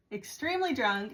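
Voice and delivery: laughing through the repeat. Real, not acted. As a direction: chuckle while stressing extremely.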